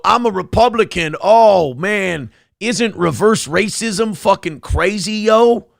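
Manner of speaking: hammed-up pandering bro voice; mocking minstrel act. Comic mocking a guy who panders to right-wingers, light mock voice. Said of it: "be a minstrel show for right-wingers".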